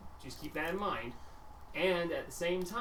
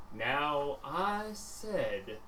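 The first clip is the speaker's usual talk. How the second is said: slow menacing boss; 4 dB quieter, much slower than usual. Acted. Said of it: "and he goes".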